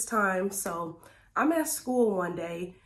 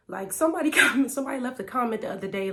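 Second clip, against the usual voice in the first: laughing; 4 semitones higher, 4 dB louder, much faster than usual. Real, not acted. Laughing while starting the anecdote.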